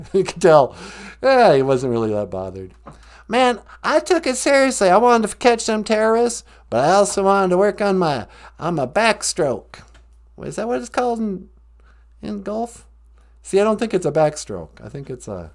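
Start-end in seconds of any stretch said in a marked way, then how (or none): 3.3-9.8 George W. Bush impression. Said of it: "George W. Bush".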